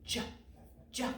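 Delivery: "J" as a short "juh", twice with a pause; letter sound. Shown as a demonstration. Teacher showing the J sound, "J" as short "juh". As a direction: say "J" as its quick sound, separately. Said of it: "Make the J sound".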